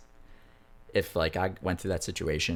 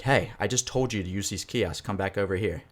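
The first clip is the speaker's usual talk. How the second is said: bossy jerk; 3 semitones higher than usual. Retold or imitated. Airport worker ordering passengers back to the kiosk, mildly bossy. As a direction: imitate a man being a bit of a jerk. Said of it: "he was kinda being a".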